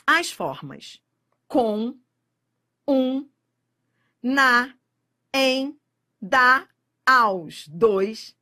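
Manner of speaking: each little word com, um, na, em, da, aos said apart and punched; reading the list. Shown as a demonstration. Teacher reading the exam list aloud, word by word. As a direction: read the monossílabos one by one.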